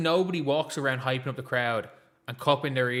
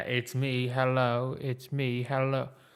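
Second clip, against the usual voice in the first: ordinary talk, nothing marked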